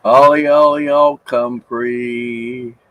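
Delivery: calling out. Real, not acted. Calling the pet over.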